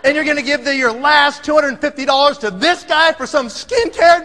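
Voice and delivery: retold indignant tirade, lightly acted; steamed up. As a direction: scold as a fed-up father-in-law. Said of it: "he is all steamed up".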